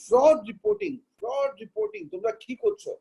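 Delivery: retold secretary's question. MCA secretary pressing auditors about fraud reporting, high mock query. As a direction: echo the official's pointed query up high. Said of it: "secretary সাহেব বললেন".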